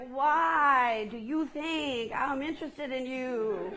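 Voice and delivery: slow, laughing through the words; drawn-out amused brush-off; laughing mock disbelief. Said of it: "And you're like".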